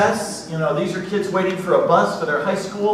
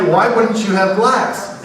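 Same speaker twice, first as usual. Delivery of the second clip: mock puzzled question; 3 semitones higher, 4 dB louder, slower than usual. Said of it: "And I say".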